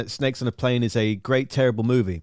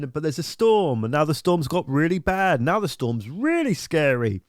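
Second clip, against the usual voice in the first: lightly voiced pilot, higher; captain; 5 semitones higher than usual. Retelling the plane scene, captain's mock-calm voice turning scared. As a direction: narrate the storm as the captain, growing worried. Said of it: "the captain's like".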